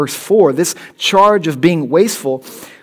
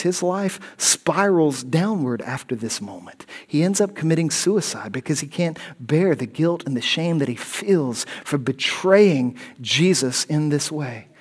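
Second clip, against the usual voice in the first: hushed; 5 dB quieter than usual. Real, not acted. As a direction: let it drop to a hush over the tragedy. Solemn low passage on Judas's suicide.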